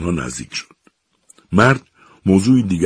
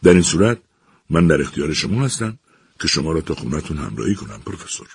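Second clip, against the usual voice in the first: cool and composed. Acted. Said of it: "سروان ویسرو با خونسردی گفت".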